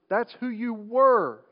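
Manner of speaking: slow line landing on a drawn-out "were"; stress on WERE. Shown as a demonstration. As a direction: punch and stretch the word "were". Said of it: "Emphasis on the word were".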